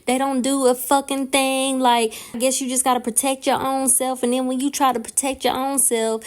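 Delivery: heated venting, running on quickly; indignant tirade that barely stops; going off. Retold or imitated. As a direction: rant to your husband, fed up. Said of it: "I'm, like, going the fuck off".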